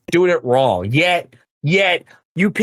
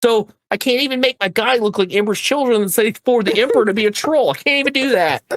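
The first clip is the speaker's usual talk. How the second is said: higher and fast, venting half-jokingly; mad rant; 6 semitones higher, faster than usual. Real, not acted. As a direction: rattle off the complaints, worked up. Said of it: "I'm so mad right I'm".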